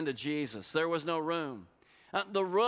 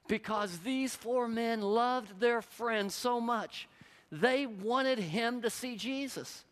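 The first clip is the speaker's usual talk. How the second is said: preaching at full force; 6 semitones higher than usual. Acted. Preacher urging the congregation to bring people to Jesus, impassioned.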